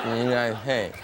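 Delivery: "United States" mushed into a drawn "nyai-hey"; slurred words. Shown as a demonstration. Comedian replaying his garbled "United States" for laughs, consonants swallowed. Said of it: "I'd like to buy a vowel".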